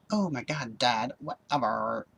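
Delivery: imitating a whiny valley girl; a light mock valley girl whine. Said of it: "she has the valley girl voice".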